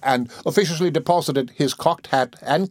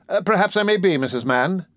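gratified beadle; 8 semitones higher than usual. A narrator's reading. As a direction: repeat it preening with pride. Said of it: "evidently gratified".

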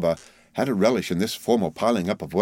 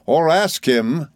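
Micawber; 6 semitones higher, 4 dB louder, much slower than usual. A narrator's reading. Micawber challenges Heap.

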